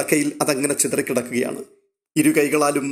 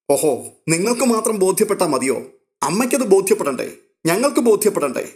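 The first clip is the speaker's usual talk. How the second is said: higher, sharp and mocking; sarcastic indignation; 6 semitones higher than usual. A narrator's reading. Daughter scornfully retorting to her uncle, higher and sarcastic. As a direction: throw the question back with scorn.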